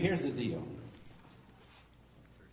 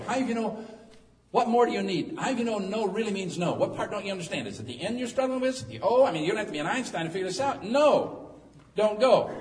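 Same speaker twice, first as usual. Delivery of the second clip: loud, higher, exasperated lecturing; exasperated scolding; 6 semitones higher, 6 dB louder than usual. Acted. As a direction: hammer home that no means no, loudly. Preacher scolds stubborn prophet.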